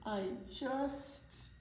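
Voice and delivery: rising to a high crying can't; whimper, then break into a cry; frightened wail. Acted. Kevin clinging to the tree, crying in fear. Scared Kevin refusing to let go.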